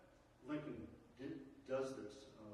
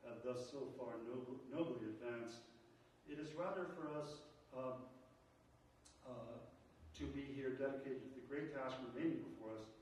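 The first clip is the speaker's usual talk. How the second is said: a teacher reading the Gettysburg Address to the class, solemn and measured; formal speech. Acted. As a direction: deliver it as a solemn address to a crowd. Reads the Gettysburg Address aloud.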